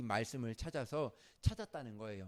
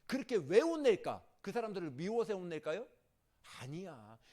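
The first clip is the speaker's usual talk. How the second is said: ordinary talk, nothing marked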